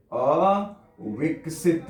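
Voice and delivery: अविकसित stretched out very slowly, each syllable clear; slow, drawn-out word. Shown as a demonstration. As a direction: spell it out slowly for the class. (अविकसित को धीरे-धीरे खींचकर बोलना)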